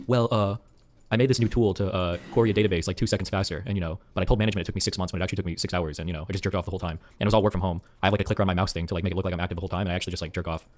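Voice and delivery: low, soft smug tech bro; lightly voiced slacker coder. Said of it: "Then I ask these tech guys".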